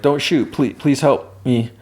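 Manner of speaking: high-pitched imitation of a frightened plea; mock whimper. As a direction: plead in a lightly acted whimper, slowing at the end. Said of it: "they whimper".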